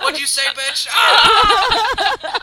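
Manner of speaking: a high, loud screamed jibe; mock shout. Fiance falling from the balcony, screaming while laughing. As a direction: yell it as you fall.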